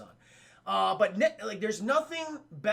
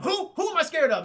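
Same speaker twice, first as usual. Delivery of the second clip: high, loud mock indignation; defensive outburst; 9 semitones higher, 7 dB louder than usual. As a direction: act rattled and challenged. Rattled actor challenged in retelling.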